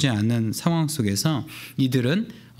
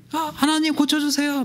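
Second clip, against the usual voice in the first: crying out; 11 semitones higher than usual. Retold or imitated. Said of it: "retold crying out of blind men".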